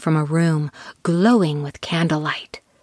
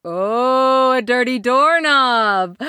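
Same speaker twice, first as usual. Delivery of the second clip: excited; 6 semitones higher, 4 dB louder, slower than usual. A narrator's reading. Narrator exclaims at the find.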